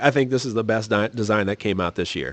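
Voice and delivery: ordinary talk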